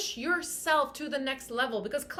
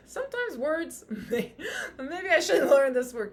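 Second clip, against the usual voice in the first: laughing through the words; real laughter. Real, not acted. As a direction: giggle while you speak, a bit sheepish. Laughs at her own mispronunciation.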